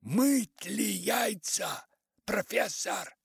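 high, loud, drawn-out phone shout; anxious distant caller. A narrator's reading. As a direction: call anxiously down a bad line. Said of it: "дальний мужской голос сказал в ухо встревоженно".

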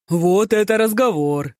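high, loud, pleased outburst; glad exclamation. A narrator's reading. Ma Joong welcoming the idea of girls, glad cry. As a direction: cheer at the mention of girls. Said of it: "радостно воскликнул Мажун".

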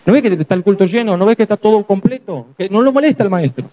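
voz más aguda, despachando a alguien; Judas echando gente. Retold or imitated. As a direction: sacarlo de encima como un portero. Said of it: "Hasta capaz que Judas está por detrás". (Judas que echa al ciego, con voz más aguda)

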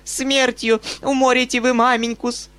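high, shrill-pitched shout; spinster shouting. A narrator's reading. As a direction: scold the uncle loudly. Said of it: "кричала она дяде".

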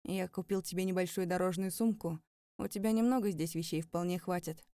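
lightly voiced man, even and level. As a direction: state it flatly, without turning. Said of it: "ровным голосом сообщил". (ровным голосом)

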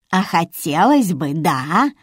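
sly, snide jab, slow. Acted. Old Vera needles Alisa with a snide question. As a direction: needle her with a sneer. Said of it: "ехидно спросила Вера".

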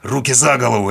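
громкий рявк приказа; рявкнуть приказ на бандита; рявкнул. A narrator's reading. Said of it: "рявкнул я". (герой рявкает приказ лежащему бандиту, громко и резко)

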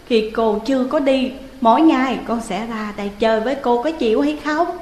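put-on high, firm scolding child; stern tone. Young Thẩm sternly lecturing ghost Hiền. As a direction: speak sternly like a little grown-up. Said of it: "Thẩm nghiêm giọng".

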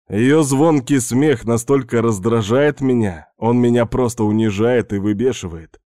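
usual speaking voice

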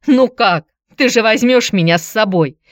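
high, loud, tearful begging; desperate plea. A narrator's reading. Antonina begging ex-husband to take her to Piter, high tearful plea. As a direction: beg him, voice cracking high.

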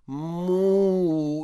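put-on high, drawn-out babyish call; playful toddler voice. A narrator's reading. Engineer cooing to his wife like a toddler, drawn out. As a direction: coo it like a spoiled little boy. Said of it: "голосом шаловливого карапуза протянул".

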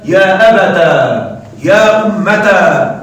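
يا أبتا said slowly with a long final alif, abataa; slow demo. Shown as a demonstration. Teacher slowly demonstrating the forms to students. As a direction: draw out أبتا and أمتا slowly, ending on a long aa. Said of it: "قلب الياء ألفا مع إثبات التاء".

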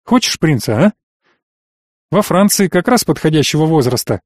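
lightly amused, coaxing father; a touch of mocking cheer; notes of amusement. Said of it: "Нотки веселья в словах". (лёгкие нотки веселья в голосе отца)

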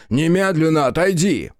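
loud, commanding shout; angry father shouting; roaring order. Acted. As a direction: bellow the order at her. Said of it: "взревел отец".

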